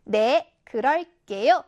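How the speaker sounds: big, confident voice on a short answer; confident, loud. Shown as a demonstration. Seulbi answering the crossing guard's greeting, loud and confident. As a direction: answer loudly and with full assurance. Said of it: "자신감 넘치고 큰 목소리로".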